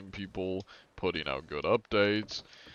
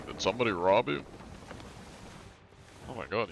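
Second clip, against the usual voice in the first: mock concern; 4 semitones higher than usual. Playing concerned to robbed player.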